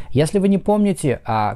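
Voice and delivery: normal talking voice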